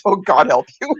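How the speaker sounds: amused line breaking into a laugh; retold laughing. Reacting to her friend's teasing in the dream, laughing. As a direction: say it on the edge of laughter, then laugh. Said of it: "And I started laughing".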